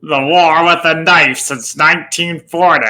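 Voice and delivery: slow, drawn-out cowboy movie-star voice; lightly voiced John Wayne, slowed; John Wayne impression. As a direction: do your best slow John Wayne line. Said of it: "let me try it".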